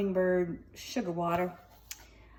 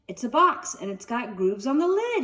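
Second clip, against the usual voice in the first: gasping; 4 semitones higher, 3 dB louder than usual. Acted. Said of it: "he gasped".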